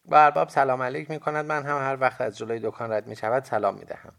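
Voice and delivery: put-on high, loud boy's voice; young boy. A narrator's reading. Boy character explains.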